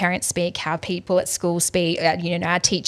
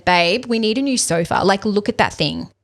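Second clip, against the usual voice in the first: louder, pushier ask; demanding; 3 dB louder than usual. Shown as a demonstration. Wife pressing partner for a new sofa, louder and demanding. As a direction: insist on it, no softness. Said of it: "Rather than".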